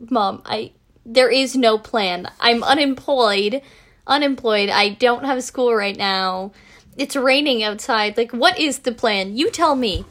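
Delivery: slow, emphatic retelling of exasperation; exasperated retort. Retold or imitated. Daughter answering mom about today's plan, mildly exasperated. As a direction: spell it out word by word, mildly fed up.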